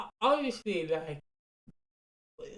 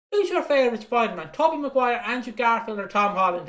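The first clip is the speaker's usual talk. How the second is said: louder, higher, keen fan question; eager kid asking; 4 semitones higher, 4 dB louder than usual. Retold or imitated. Kid Lee quizzing dad after the film, excited and louder. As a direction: quiz him like an excited young fan. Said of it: "he goes to my dad and goes".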